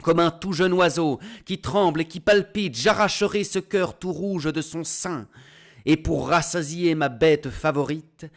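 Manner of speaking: high, loud, mocking proclamation; wife crying out in public. A narrator's reading. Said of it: "Sa femme va criant sur les places publiques".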